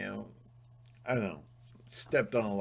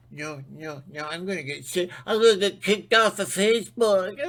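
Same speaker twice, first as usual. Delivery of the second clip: mock panic; 7 semitones higher, 5 dB louder than usual. Mocking a timid viewer's fear.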